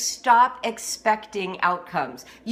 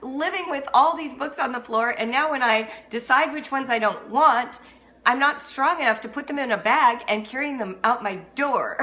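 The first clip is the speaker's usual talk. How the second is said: mock exasperation; 4 semitones higher than usual. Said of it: "I'm like".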